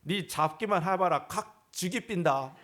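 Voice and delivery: slowed mock threat in Gyeongsang dialect; half-joking menace; threatening Gyeongsang husband. Pastor mimics a Gyeongsang husband's mock threat, in Gyeongsang dialect. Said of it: "경상도 남자가요".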